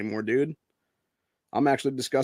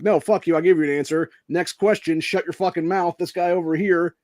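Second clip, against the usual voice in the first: loud, higher, brash dismissal; hammed-up defiant yell at the press; brash shout; 5 semitones higher, 6 dB louder than usual. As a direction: shut the reporter down and point to the next one. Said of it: "I'm like".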